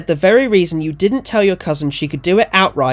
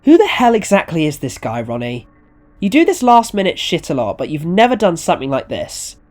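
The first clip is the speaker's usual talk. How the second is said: mildly heated, raised questioning; exasperated demand; 5 semitones higher, 6 dB louder than usual. Acted. Owner demanding to know who the client is, exasperated. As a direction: press for an answer, somewhat exasperated.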